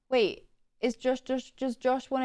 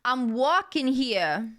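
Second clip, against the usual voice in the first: yelled catchphrase; 2 semitones higher, 3 dB louder, much slower than usual. Acted. Streamer acting someone yelling out of a car, mock yell. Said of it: "out of a car and yell".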